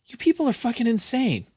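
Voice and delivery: high mock-exasperated voice at strangers; mocking outburst. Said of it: "I'm like".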